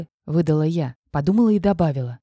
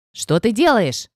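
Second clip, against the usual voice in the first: growled; 2 semitones higher, 3 dB louder, slower than usual. A narrator's reading. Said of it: "звучал как рык".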